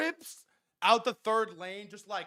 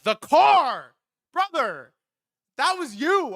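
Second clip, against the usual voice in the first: higher, louder disbelieving outburst; incredulous friend; 7 semitones higher, 6 dB louder, slower than usual. Retold or imitated. Friend Malcolm tells driver it was him, loud disbelief. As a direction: blurt it out in disbelief. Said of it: "He's like".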